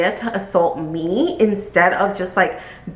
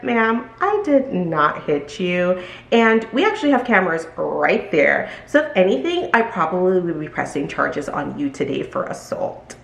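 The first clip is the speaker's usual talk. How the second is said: calm voice. Retold or imitated. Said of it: "in my most calm voice".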